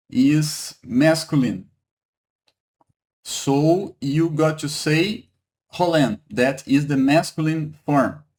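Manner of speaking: ordinary talk, nothing marked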